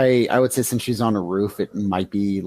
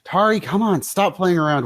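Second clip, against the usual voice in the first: higher-pitched, eye-rolling impatience; exasperated scolding; 7 semitones higher than usual. Acted. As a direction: chide a dawdling partner. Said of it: "kind of roll her eyes".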